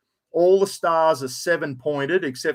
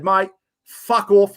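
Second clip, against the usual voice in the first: retold brush-off; 4 semitones higher, 7 dB louder, slower than usual. Retold dismissal of the bloke.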